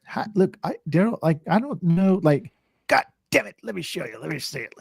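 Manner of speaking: put-on young worker begging to see the trick; mock pleading. Apprentice to stepdad, high pleading voice. Imitating himself nagging stepdad.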